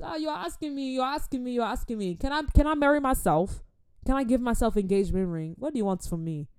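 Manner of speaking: high, loud protesting rant; worked-up comic protest; hammed-up exasperation. Acted exasperated answer to child.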